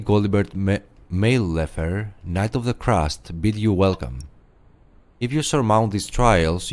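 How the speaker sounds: lightly voiced stately knight greeting a newcomer; a hint of grand ceremonial knight, measured and formal; a knight of an old order welcoming an aspirant, solemnly.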